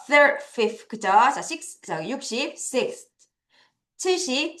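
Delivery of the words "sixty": Sixty with strong SIX, faint ty; SIX-ty, ending barely voiced; weak ty. Shown as a demonstration. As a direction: hit SIX, nearly swallow ty. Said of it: "T를 약하게 읽어요".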